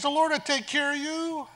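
high, comforting self-reassurance; frightened Linda reassuring herself in the dark, high and hopeful. Retold or imitated. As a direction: talk yourself into courage, lifted up. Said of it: "She says".

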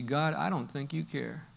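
a struggling believer feeling ignored by God; despairing prayer. Acted. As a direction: confess despair to God, worn out. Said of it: "the natural response at one point is gonna be".

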